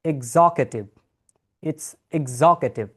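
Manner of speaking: executive said as egg-ZEK-yu-tiv, with a hard g-z sound and stress on the second syllable; careful teacher model of executive; correct pronunciation of executive. Shown as a demonstration. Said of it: "The correct way to pronounce this word will be".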